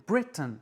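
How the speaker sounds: Britain said as BRIT-un, weak final syllable; English word Britain. Shown as a demonstration. Teacher repeats Britain slowly for learners. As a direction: stress BRI, swallow the tain. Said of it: "T A I N se prononce un".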